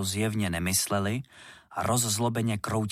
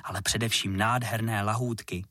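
plain reading voice

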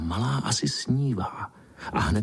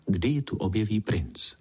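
ordinary delivery, nothing marked

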